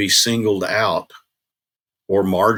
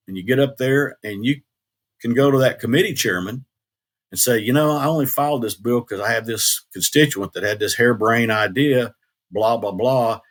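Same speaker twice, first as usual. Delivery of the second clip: put-on Oklahoma country accent; 3 semitones higher than usual. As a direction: do a good old Okie, lightly imitated country accent. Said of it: "country kind of accent".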